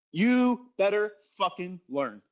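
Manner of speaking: slow, deliberate "You better fucking learn"; slow emphatic warning. Real, not acted. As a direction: drag each word out to drive it home.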